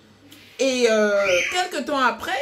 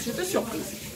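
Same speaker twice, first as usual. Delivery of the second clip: higher, softer repeat of her surprise; surprised echo; 5 semitones higher, 7 dB quieter than usual. Real, not acted. Telling viewers about the boyfriend's message, quietly amazed. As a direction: breathe it out again, still amazed.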